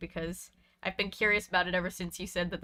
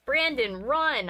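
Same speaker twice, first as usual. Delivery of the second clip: urgent shout, higher; shouted warning; 4 semitones higher, 4 dB louder, slower than usual. Acted. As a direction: yell at him to run. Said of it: "I cried".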